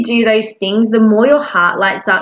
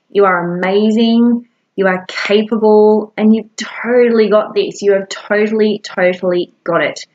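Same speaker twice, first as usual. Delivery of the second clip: reassuring self-talk. Shown as a demonstration. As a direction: comfort yourself like a kind friend would. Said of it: "all you need to do is say".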